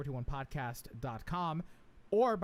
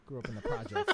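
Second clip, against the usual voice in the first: high, emphatic tough-guy line. Pretend. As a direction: punch it like a street tough. Tough act punchline.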